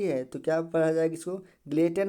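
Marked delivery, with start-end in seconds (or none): 1.7-2.1 ग्लेटन as "glay-ten", t sounded; wrong pronunciation. Shown as a demonstration. Teacher listing readings to avoid, t sounded. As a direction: say ग्लेटन with no s and a clear t. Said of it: "नहीं पढ़ा जाएगा".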